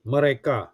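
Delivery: mereka mit Betonung auf der letzten Silbe ka; "mereka" sagen, das ka am Ende klar betonen; stress on ka. Shown as a demonstration. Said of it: "So the stroke is on ka".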